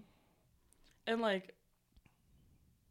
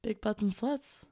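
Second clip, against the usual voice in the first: customer service voice; 2 semitones higher, 5 dB louder than usual. Pretend. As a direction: answer the phone like a receptionist. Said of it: "customer service voice".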